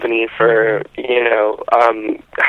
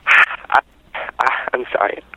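choked-up pauses between words; emotional. Real, not acted. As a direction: apologize haltingly through real emotion. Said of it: "I'm a little emotional".

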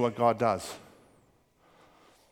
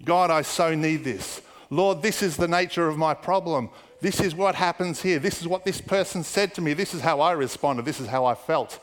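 mock rambling plea, phrase piled on phrase; waffling prayer. Preacher re-enacting own prayer at home to God, waffling. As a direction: imitate yourself over-explaining in prayer. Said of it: "I was aware that I was waffling".

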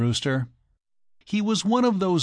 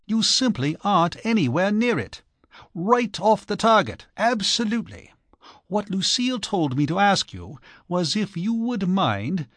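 eager news; 7 semitones higher than usual. Acted. Archie excited about grandchild news.

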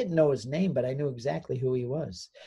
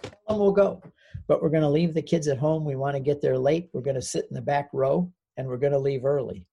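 a hint of the wife, a bit raised; wife's voice; 4 dB louder than usual. Wife answers in retold scene.

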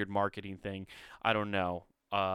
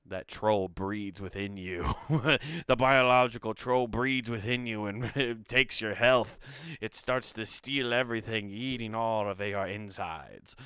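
put-on light Scottish accent; 3 dB louder than usual. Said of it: "Scottish accent".

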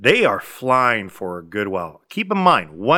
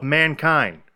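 presidential speech; 2 semitones higher than usual. Retold or imitated. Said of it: "presidential speech".

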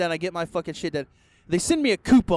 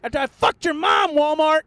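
indignant rant; 10 semitones higher than usual. Acted. Ranting about the refund.

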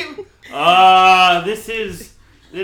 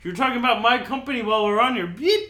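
robot voice; 4 semitones higher, 5 dB louder, faster than usual. Pretend. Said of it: "robot disconnect".

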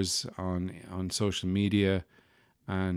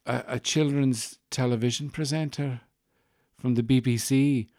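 high, hesitant Scottish woman, imitated; Scottish accent; 5 semitones higher than usual. Coffee vendor trying to place a familiar voice, Scottish accent. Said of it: "who were lovely and Scottish".

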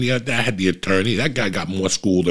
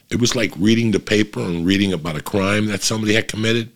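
usual speaking voice

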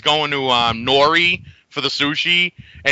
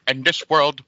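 Ralphie impression; 2 semitones lower than usual. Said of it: "you gotta go".

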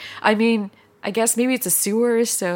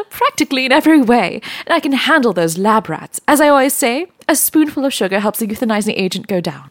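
chirpy nanny voice; 5 semitones higher, 4 dB louder, faster than usual. Acted. Mary Poppins parody boasting.

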